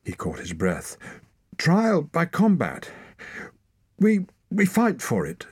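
high, loud, rushed; urgent argument. A narrator's reading. Torak demanding trial by combat, high and loud. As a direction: grab at the last hope.

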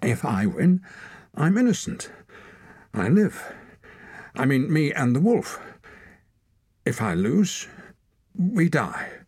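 high, loud, driven; fierce challenge. A narrator's reading. Torak challenging the leader to combat, high and loud. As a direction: stare him down.

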